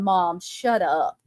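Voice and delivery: slow, low mock plea from the family; groaning at mom to stop; embarrassed kids. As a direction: drag it out like a mortified kid. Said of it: "covering their faces going".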